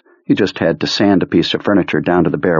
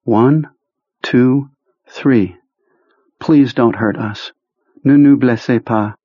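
put-on higher young woman pleading slowly; 5 semitones higher, slower than usual. A narrator's reading. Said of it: "Then a young woman's voice said".

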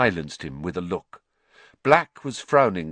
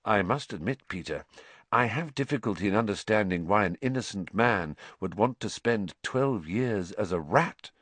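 even and calm; 4 dB quieter than usual. Acted. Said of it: "said Lupin evenly".

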